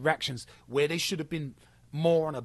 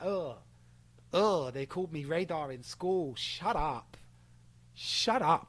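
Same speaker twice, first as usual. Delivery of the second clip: mock dismissive whine; slower than usual. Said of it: "That's what I hear".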